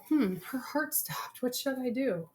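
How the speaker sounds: whispered, slow, a clueless surgeon muttering to himself; clueless doctor. Retold or imitated. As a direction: play a panicked doctor whispering over the patient.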